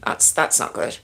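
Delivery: breathy whisper to herself; whispered aside. Real, not acted. Struggling with her lighting, muttering to herself in a whisper. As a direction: whisper it under your breath, dismayed.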